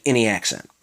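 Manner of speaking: "any accent" for "in the accent", run together; Maryland slur. Shown as a demonstration. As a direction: slur "in the" into "inny". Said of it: "gets slurred into so many different words".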